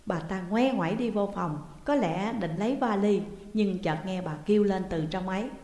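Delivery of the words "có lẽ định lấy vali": usual speaking voice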